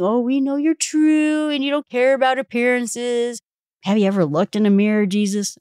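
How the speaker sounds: high, fast, syrupy sarcastic praise; butter him up with sneering sweetness; mock flattery. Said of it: "being kind and saying".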